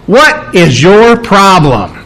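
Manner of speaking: slow, pointed challenge; slowly stressed rebuke; emphatic. Acted. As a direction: space the words out for mild emphasis. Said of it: "extremely emphatic statement".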